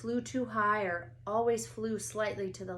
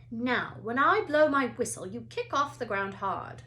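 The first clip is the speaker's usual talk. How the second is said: louder teacher orders; instructing loudly; 3 semitones higher, 7 dB louder than usual. A narrator's reading. Madame Hooch instructs the class, loud. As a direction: project to the class.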